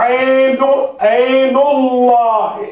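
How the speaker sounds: عین اللہ with a slow, full heavy lām; full heavy Allah. Shown as a demonstration. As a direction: stretch اللہ out slowly with a thick, full L. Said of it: "لفظ اللہ کو بھر کے پڑھا". (بھاری لام کے ساتھ آہستہ عین اللہ)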